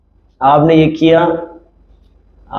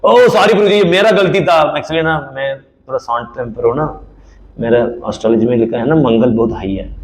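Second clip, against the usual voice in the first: lightly voiced effusive devotee; hearty apology. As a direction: gush out the apology.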